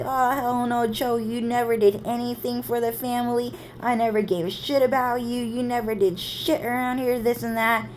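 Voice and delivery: lightly voiced mean sister telling someone off; mean retold scolding. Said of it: "She would say the meanest fucking thing".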